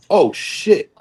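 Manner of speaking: sudden realization, voice jumping up; stunned disbelief. Retold or imitated. Shock at winning pro card.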